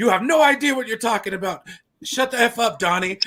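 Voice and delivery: high-pitched, angry snapping tone. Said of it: "John Goodman snaps at him".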